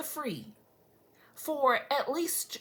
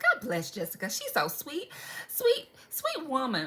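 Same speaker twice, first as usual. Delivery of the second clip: exaggerated sweet turnaround; gushing praise; 4 semitones higher than usual. Telling husband how sweet the neighbor is, gushing. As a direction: gush over her, drawing out the last words.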